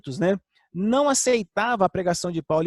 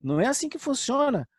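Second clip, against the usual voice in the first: voicing Paul; 4 semitones higher, slower than usual. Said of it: "por isso Paulo diz assim".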